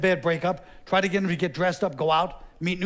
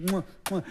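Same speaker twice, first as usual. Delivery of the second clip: kiss sounds; 5 dB quieter than usual. Acted. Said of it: "the two kisses on the cheek".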